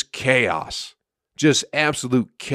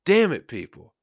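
higher, louder fed-up complaining rant; building into a pitched-up "what the fuck" tirade; exasperated rant; 8 semitones higher, 5 dB louder than usual. Retold or imitated. Comic on stage venting at chatty crowd, exasperated and loud. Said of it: "and it's like".

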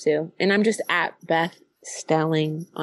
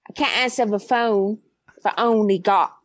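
put-on Cockney patter; Cockney accent. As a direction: try a line in mock Cockney. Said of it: "received pronunciation or Cockney".

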